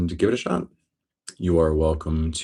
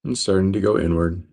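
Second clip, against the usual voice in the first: steady meditation guide, long pauses between phrases; guided meditation. Real, not acted. Teacher guiding listeners into breath awareness, guided meditation. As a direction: guide them calmly, leaving space after each phrase.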